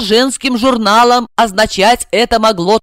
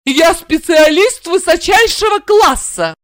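yelling; 9 semitones higher than usual. A narrator's reading. Blonde yelling at the housewife. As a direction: scream the insult.

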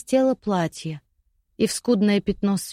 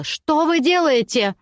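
much higher, slow terrified shriek; 7 semitones higher, 3 dB louder than usual. Acted. Sinking lady shrieks at her captors in terror. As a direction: shriek as the mud swallows her. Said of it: "Она заверещала".

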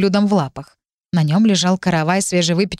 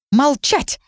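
howled order; 7 semitones higher than usual. A narrator's reading. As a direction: shout over the squabbling pair. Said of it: "взвыла я, перекрикивая саму себя".

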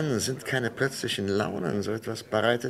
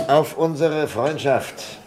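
slow, drawn-out toast, raised high and loud; hearty toast; 7 semitones higher, 6 dB louder, much slower than usual. Acted. Bergmann toasts his doctor friend at his birthday in a slow, hearty voice. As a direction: savour each word as you lift the glass.

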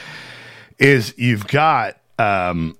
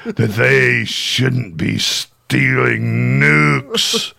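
loud, slow mock "how dare you"; hammed-up outrage; 5 dB louder, much slower than usual. Mocked congressman roars at the student, hammed-up loud. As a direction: bellow it like an outraged senator. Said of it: "and you get up there and like".

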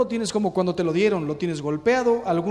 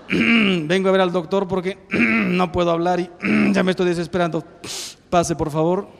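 loud, strained plea broken by throat-clearing; desperate patient; 8 dB louder than usual. Acted. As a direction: beg to get in, nearly shouting. Tic patient begs the nurse.

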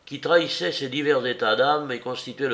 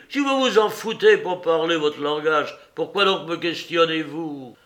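colère vive; 4 semitones higher than usual. Acted. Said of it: "hors de lui".

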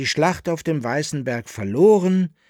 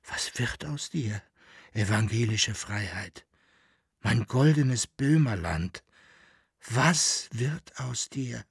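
klagend; 3 dB quieter than usual. Acted.

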